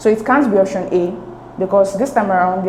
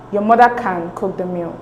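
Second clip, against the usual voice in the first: "Your mother can cook the meal", with CAN stressed; emphatic stress on CAN. Shown as a demonstration. Teacher reading out the test sentence, emphatic stress on "can". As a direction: lean on "can" as the key word. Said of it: "capital letters has the emphatic stress".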